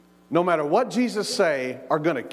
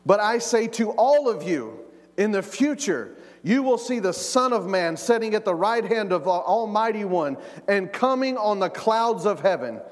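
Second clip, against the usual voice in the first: booming voice of Jesus; 5 semitones higher than usual. Shown as a demonstration. Preacher voicing Jesus to the court, booming out. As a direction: ring it out like a voice on a microphone. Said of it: "his mouth would be very close".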